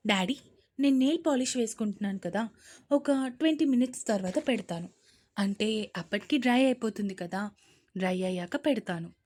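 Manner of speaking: fast, careless daughter brushing off dad; dismissive excuse. Acted. Daughter brushing off her father, careless. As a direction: rush through the excuse.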